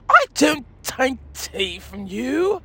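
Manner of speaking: drawn-out mock refusal; retold refusal. Young lady refusing tea from the Brit, slow mock refusal. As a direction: slowly voice a lady turning down the offer. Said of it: "and said".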